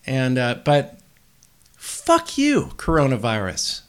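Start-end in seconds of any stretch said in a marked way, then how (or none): 1.8-3.8 mock curse at the virus. Real, not acted. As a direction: spit it at the virus, pitch leaping. Cursing the virus directly.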